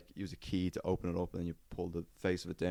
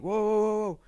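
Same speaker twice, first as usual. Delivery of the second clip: high, loud startled cries of whoa; alarmed whoa; 13 semitones higher, 6 dB louder than usual. Retold or imitated. Pinned against the wall by a trolley, startled yelp. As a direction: yelp it like you're suddenly pinned.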